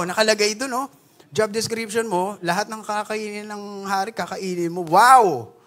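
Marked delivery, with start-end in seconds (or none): 4.8-5.5 mock wow. Mock awe at job perks.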